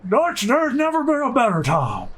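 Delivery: lightly voiced gruff cowboy; a hint of a whispery outlaw; Arthur voice. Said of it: "I think I've got an Arthur impression down".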